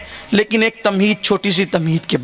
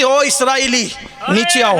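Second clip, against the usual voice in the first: a saint's call, only a little raised; 3 semitones higher than usual. Retold or imitated. Preacher retelling the saint calling Khizr down, mild call. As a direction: call him down, still near your own voice. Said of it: "کہتے".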